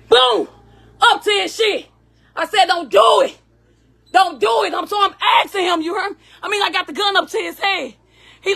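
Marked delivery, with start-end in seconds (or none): 2.6-4.7 firm, louder warning; retold warning. Mother warning the man she holds at gunpoint, louder. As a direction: stop him with a raised voice.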